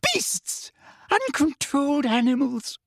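very high shriek without full volume; screamed insults. A narrator's reading. Umbridge cowering before centaurs, screaming. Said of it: "she screamed".

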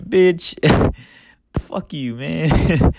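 retorting fuck you. Retold or imitated. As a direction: snap back at him, hammed up. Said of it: "And I'm like".

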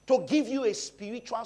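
high, loud, slowed preaching; fiery sermon peak; preaching shout. Real, not acted. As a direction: lift it to a full pulpit cry. Preacher rising to full force.

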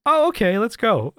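very high, squeaky mock agreement; imitated woman. Girl suddenly agreeing to go up, mock high-pitched voice. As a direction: jump way up in pitch to play her. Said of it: "then she's like".

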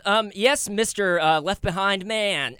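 unhinged villain. Acted. Devil addresses the rapture survivor.

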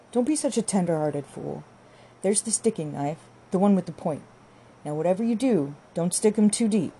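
lightly voiced wife, impatient; impatient bossy wife. Wife hands reluctant husband the knife, impatient. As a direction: order him about with a touch of scorn. Arabella orders Jude about.

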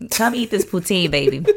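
jokey Louisiana come-on, breaking into laughter; Louisiana accent. Pretend. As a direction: put on a playful Louisiana accent. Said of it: "I don't know where that accent came from".

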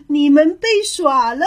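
taunting storybook call with a stretched ending. Acted. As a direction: crow over the tricked animals. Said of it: "他叫道".

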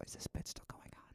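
hushed aside, still in the ASMR bit; ASMR whisper. Pretend. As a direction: keep whispering, very softly. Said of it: "is this like A S M R".

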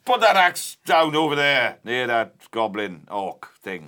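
hammed-up Welsh dwarf voice; loud, slow Welsh dwarf; Welsh accent. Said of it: "That's Welsh".

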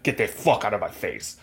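lightly put-on accent of a singer; a hint of a singer's accent. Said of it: "What is that accent you just gave the singer?".

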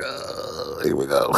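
low, groaned resignation; weary dread. Acted. Comic voicing every race's reaction to complaints, weary groan.

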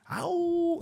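a sudden high mock wolf howl; playful yelp of a wolf. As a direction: throw out a short howl like a wolf. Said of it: "I call myself the Wolf Man".

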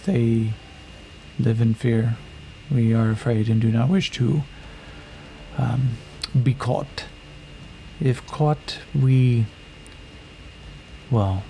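formal, measured, a touch of fear; fearful warrior woman. Acted. Warrior woman tells Yakim her sisters live in fear.

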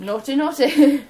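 mock scolding about the naughty camera, slowly; teasing. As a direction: wag a finger. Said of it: "teasing phone camera".

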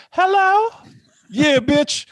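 a trucker ordering at the drive-thru; rough customer ordering. Pretend. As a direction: bark an order into the speaker. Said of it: "you hear the trucks pull up".

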